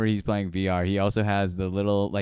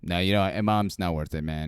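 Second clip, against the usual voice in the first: impersonating Joe; 4 semitones lower than usual. Retold or imitated. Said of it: "You nailed that impersonation".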